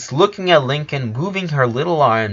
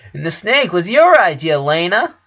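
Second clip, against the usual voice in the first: put-on girl voice; 7 semitones higher, 5 dB louder than usual. Lola voiced, high.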